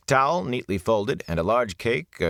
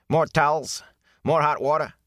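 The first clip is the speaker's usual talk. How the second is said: higher attendant offering; attendant's voice; 9 semitones higher, 3 dB louder than usual. Acted. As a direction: offer eagerly in his put-on voice. Ara offers more.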